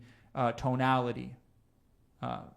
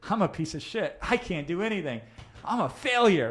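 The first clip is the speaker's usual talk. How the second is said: upbeat self-talk; 5 semitones higher than usual. Shown as a demonstration. Coach showing tone contradicting the words, cheerful. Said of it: "But if you say".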